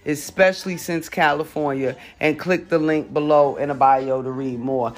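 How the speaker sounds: stoner. Real, not acted. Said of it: "I'm high as a kite right now".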